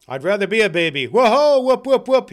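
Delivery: loud, climbing into high whoops; exuberant whooping. Acted. Scrooge giddy as a baby, whooping exuberantly. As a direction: burst out whooping with abandon.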